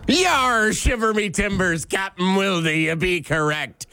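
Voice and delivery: hearty pirate growl, lightly done. Acted. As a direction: ham up a pirate captain. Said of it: "with a pirate voice".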